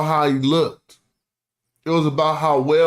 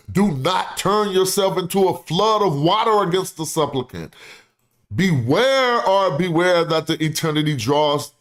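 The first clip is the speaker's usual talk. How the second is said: dramatic orator reading. Acted. Reads ancient plea aloud.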